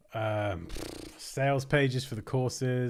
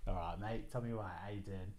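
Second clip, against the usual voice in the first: soft Cockney; 9 dB quieter than usual. Pretend. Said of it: "How'd you say governor?".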